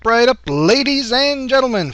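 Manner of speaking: loud, high carnival barker pitch; snake oil seller. Acted. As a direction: reel in the crowd like a fairground huckster. Carnival barker opening the show.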